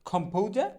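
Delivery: খমফৌজা with aspirated kh, puffed p and "ou" glide; corrected pronunciation. Shown as a demonstration. Teacher correcting composer, খমফৌজা as "khom-phou-ja". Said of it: "কি বললাম".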